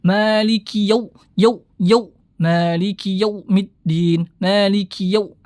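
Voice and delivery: yau pushed hard and strained; overpressed yau error. Shown as a demonstration. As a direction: press yau too hard on purpose. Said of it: "dengan terlalu menekan".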